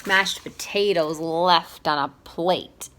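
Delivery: slow, tearful lament; crying. Acted. Owl weeping over sad things, slow tearful voice. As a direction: mourn each word slowly, close to tears. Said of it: "he cried".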